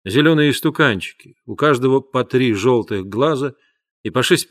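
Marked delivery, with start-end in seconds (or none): none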